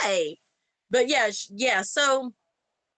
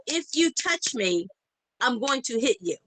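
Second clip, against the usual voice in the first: flat-out warning. Retold or imitated. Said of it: "I told her flat out".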